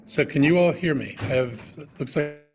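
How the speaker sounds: choppy breaking audio; bad connection voice; glitchy robotic call. Real, not acted. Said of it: "Your audio is breaking".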